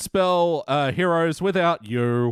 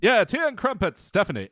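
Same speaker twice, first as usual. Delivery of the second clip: put-on English accent; 5 semitones higher than usual. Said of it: "How do you do an English accent?".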